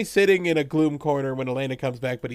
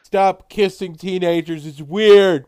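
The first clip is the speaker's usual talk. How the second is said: mock angry son; 3 semitones higher, 6 dB louder, slower than usual.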